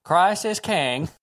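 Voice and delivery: put-on Chinese accent voice. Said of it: "Christ is king in the Chinese voice".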